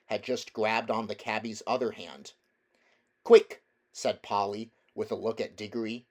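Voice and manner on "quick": sharp high call, much louder; a girl urging everyone to hurry, high and loud; urgent cry. Acted. Polly urging the others to hurry, a high urgent cry.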